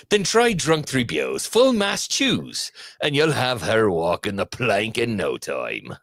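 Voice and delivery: light pirate ad read, half laughing. Pretend. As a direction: read the ad like an old sea pirate. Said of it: "ad read for the Commodore in pirate voice".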